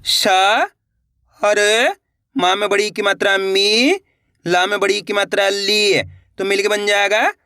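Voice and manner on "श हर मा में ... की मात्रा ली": श, हर, मी, ली each spelled out apart; syllable by syllable. Shown as a demonstration. Teacher spelling out a word for pupils. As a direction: build the word piece by piece with the matra. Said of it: "देखिए किस तरीके से है".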